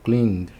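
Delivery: "cleaned" as kleend, one syllable; correct -ed as D. Shown as a demonstration. Teacher correcting the mistake, "cleaned" said as kleend. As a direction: finish "cleaned" straight on a voiced D. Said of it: "não cleaned".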